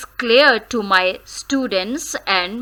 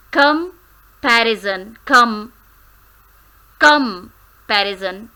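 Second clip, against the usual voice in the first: comparison with com stressed; comparison, punch com first. Shown as a demonstration. Teacher modelling comparison, com stressed. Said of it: "the stressed one is the first syllable, that is come".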